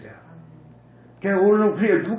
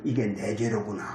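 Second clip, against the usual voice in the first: much softer, lower, quietly owning the fault; humble admission; 10 semitones lower, 7 dB quieter than usual. Shown as a demonstration. Father owning his child's fault, soft and low. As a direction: drop the voice low, taking the blame. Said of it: "이렇게 생각을 해야 하는 겁니다".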